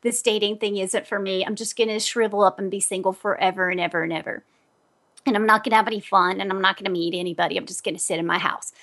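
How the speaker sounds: lightly voiced mopey self-pity, low and fast; venting to a friend after a bad date, mock mopey; mock gloomy. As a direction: whine half-heartedly about giving up. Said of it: "calling her and saying".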